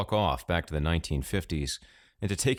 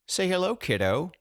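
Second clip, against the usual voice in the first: eager prodding; 13 semitones higher than usual. A narrator's reading. Grandpa urging grandson.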